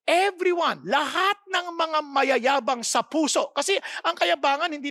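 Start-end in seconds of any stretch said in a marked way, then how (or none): 0.1-3.5 preaching shout. Real, not acted. Preacher proclaims scripture.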